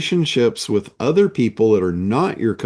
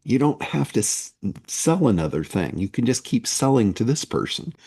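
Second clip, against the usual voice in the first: softer, confidential aside in a half-whisper; mock whisper; 5 dB quieter than usual. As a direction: drop the volume as if letting out a secret. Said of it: "so I'll whisper it".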